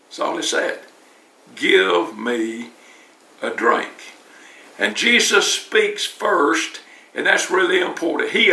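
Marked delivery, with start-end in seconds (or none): 1.5-3.9 gentle and low, slow, with a pause before a drink; calm sweet voice. Retold or imitated. Preacher repeating Jesus' request, low and soothing. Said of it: "in the calmest, sweetest voice".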